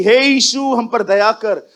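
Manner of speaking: a woman calling to Jesus from afar, mock plea; mock crying out. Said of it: "दूर से चिल्ला रही थी".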